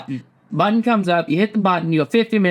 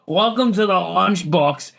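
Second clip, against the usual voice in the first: hammed-up catchphrase. Coining a gamer catchphrase.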